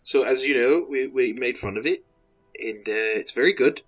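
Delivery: Taika-style Kiwi accent, lightly put on; New Zealand accent. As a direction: fake a loose New Zealand accent as the director. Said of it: "this was my New Zealand, uh, accent".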